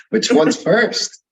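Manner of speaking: laughing through the question, rising high. Real, not acted. Host amused by his own pile of questions, laughing. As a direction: giggle as you ask it.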